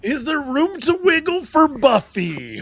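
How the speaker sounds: high, slow dramatic trailer read; movie trailer voice. Acted. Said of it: "Is that why you used the trailer voice".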